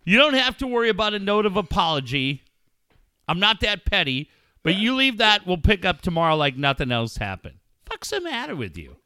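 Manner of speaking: an irritated, profane chewing-out of a late friend; mock angry rant. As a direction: scold him like he owes you, half joking. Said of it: "It would have been this".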